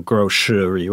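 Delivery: grocery said as "grosh-ry", with a sh sound in the middle; American pronunciation. Shown as a demonstration. Co-host models the American grocery. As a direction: say grocery the Kentucky way. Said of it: "你怎么念".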